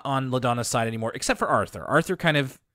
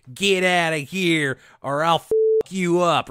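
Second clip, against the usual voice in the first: hammed-up menace, pitched higher; mock threat; 4 semitones higher, 5 dB louder than usual. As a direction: threaten like a pretend brawler. Imagined threat from Bud, acted.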